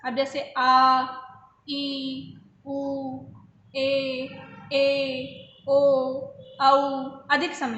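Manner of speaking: vowels आ, ई, उ, ए, ओ, औ each held long and loud; long vowels demo. Shown as a demonstration. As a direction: stretch आ, ई, उ, ए, ओ, औ to show their longer length. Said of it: "कुछ स्वरों को अधिक लगता है".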